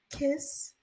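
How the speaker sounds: high little doll voice; creepy childlike plea. Retold or imitated. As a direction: imitate a creepy man-child asking softly. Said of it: "the creepiest part of the movie".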